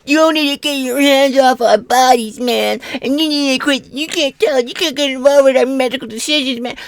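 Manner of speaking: high, whiny parody of a protester; mocking opponent. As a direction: sneer their slogans back at them in a squeaky voice. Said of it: "You cannot come at me with this".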